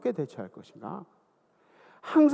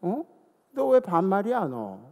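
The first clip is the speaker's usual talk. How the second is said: mock rude talk-back. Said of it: "저도 같이 반말을 했어요".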